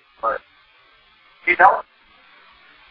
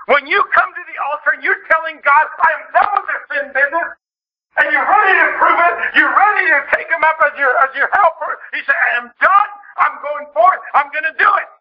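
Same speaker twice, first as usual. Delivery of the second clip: higher, driving sermon delivery; forceful preaching; 8 semitones higher than usual. Real, not acted. Preacher urging the congregation to mean it at the altar, forceful preaching. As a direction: declare it with urgent resolve.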